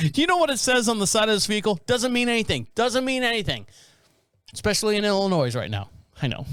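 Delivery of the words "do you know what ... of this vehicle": mock arrogant cop. Imitating the cop bragging to the driver. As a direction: play the entitled cop, laughing.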